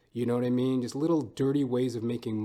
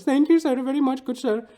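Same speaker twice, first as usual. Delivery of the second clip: put-on much higher, louder, fast Indian-accented cashier; imitated Indian accent; 13 semitones higher, 9 dB louder than usual. Cashier calling the next customer in a hammy Indian accent. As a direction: rattle it off high and quick in a put-on Indian accent. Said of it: "my Hindu friend ... goes".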